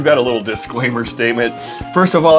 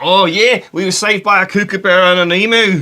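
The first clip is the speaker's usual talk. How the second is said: fake Australian accent, much higher pitch; 7 semitones higher than usual. Trading a made-up outback story with another speaker, in a fake Australian accent. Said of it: "our attempts at Aussie accents".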